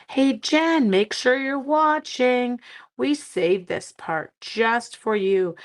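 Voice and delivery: slow, high, loud call to a viewer; calling out to Jen. Real, not acted. Host calls out to viewer Jen, slow and loud. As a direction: draw the name out and call her over.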